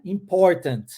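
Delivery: "Important" with both T's pronounced crisply; both T's clear. Shown as a demonstration. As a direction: say every T in "Important". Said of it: "Possui aí esses dois T's". ("Important" com os dois T pronunciados)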